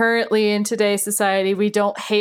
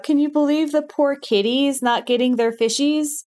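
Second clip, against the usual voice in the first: mock sorrow; 6 semitones higher than usual. Mock pity for kitties.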